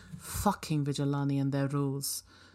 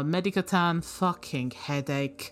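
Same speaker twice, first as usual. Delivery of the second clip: exasperated. Acted. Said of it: "Fakiri Saeed's voice plays and says".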